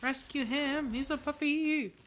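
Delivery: high, loud, urgent cry; excited shout. Real, not acted. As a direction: call out in a rush to save him. Spots the puppy in danger.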